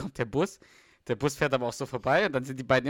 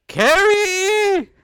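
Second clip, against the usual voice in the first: frantic shout; 11 dB louder than usual. Acted. Scripted scene, rescuing Carrie.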